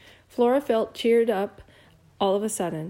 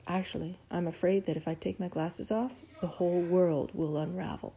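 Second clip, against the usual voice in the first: softer, confiding, half under the breath; lowered voice; 3 semitones lower, 6 dB quieter than usual. A narrator's reading. William confides his fear to Flora in a lowered voice. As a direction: lean in and confess it quietly. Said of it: "He lowered his voice".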